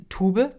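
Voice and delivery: "Tube" German-style, TOO-buh; deutsche Aussprache. Real, not acted. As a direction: say "Tube" as a German word, not English. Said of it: "ich hoffe, ich spreche das jetzt richtig aus". ("Tube" deutsch ausgesprochen, mit hörbarem e)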